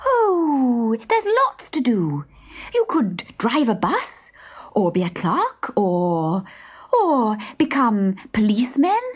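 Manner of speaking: put-on a high, bright girl's suggestions; helpful girl. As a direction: list the jobs brightly.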